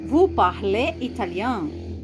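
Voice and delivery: Je parle portugais read slowly and clearly for the class; slow, careful French example sentence; slow model sentence. Shown as a demonstration. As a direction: read it out slowly like a language teacher.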